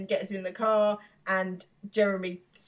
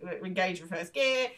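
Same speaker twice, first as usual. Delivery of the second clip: put-on calm voice. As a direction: act forcedly calm with a bad driver. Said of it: "put on his calm voice".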